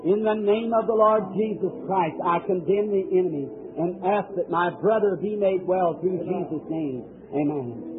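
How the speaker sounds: steady, earnest prayer of command; healing prayer. Acted. Pastor condemns illness for a brother, firm and earnest. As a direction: call on the Lord's name firmly.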